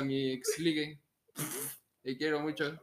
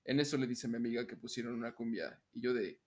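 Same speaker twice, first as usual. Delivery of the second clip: announcer-style narration with deliberate pauses; voz de locutor. Pretend. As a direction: read it out in measured, evenly pitched phrases. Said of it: "la voy a leer con mi voz de locutor". (voz de locutor, pausada y pareja)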